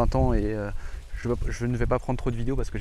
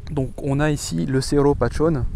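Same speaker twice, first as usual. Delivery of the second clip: Spanish accent; 3 semitones higher, 5 dB louder than usual. Shown as a demonstration. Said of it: "avec mon accent toujours super".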